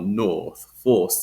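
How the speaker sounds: "north, force" with long aw, no R; extended vowel. Shown as a demonstration. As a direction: hold the vowel in "north", drop R. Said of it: "that extended vowel".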